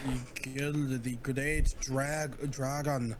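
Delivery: slow, drawn-out attempt at Scottish; attempted Scottish accent. Friend recounting Kratos's dragon kill, attempted Scottish accent. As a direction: draw it out in amateur Scottish. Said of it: "I wish I could do a better Scottish accent".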